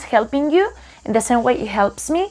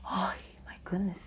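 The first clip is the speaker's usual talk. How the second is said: whisper; 3 semitones lower, 18 dB quieter, faster than usual. Real, not acted. Student overwhelmed by hard words.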